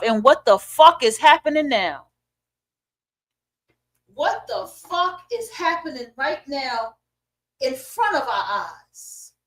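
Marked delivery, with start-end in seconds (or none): 4.1-9.3 slow and much softer; hushed disbelief. Real, not acted. Asking viewers what they see happening, hushed disbelief. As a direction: drop the volume and draw each word out.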